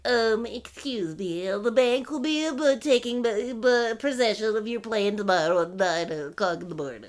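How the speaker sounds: soft, halting bank-man voice; guy from the bank. Retold or imitated. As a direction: stumble timidly through it as a cartoon bank official. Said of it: "like, such a specific voice".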